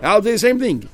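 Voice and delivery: 1 jealous boast. Retold or imitated. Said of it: "rival friend boasting".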